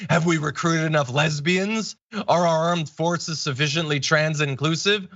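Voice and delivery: lightly mocking, sing-song sarcasm in the read tweet; mock sarcastic read. Host reading a pundit's sarcastic tweet aloud, lightly mocking. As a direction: read it like you're sneering at it. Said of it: "He's being sarcastic".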